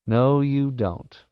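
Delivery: relishing predatory taunt; menacing taunt. Acted. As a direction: stretch it out at the escaping prey. Hero spots fleeing prey.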